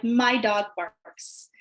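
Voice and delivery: put-on slow, even model sentence for kids. Shown as a demonstration. Teacher to students, slow model sentence. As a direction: say it slowly so the kids can hear each word.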